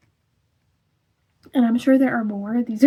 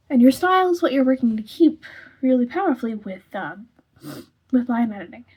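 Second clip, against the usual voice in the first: holding back a sneeze; 4 dB louder than usual. Real, not acted. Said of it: "Sorry, I'm getting stuffed up".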